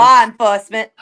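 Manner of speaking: loud Boston accent with dropped R; broad Boston pronunciation, punched out. Shown as a demonstration. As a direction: say "Law enforcement" like a Bostonian. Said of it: "let me say it in, in Boston accent".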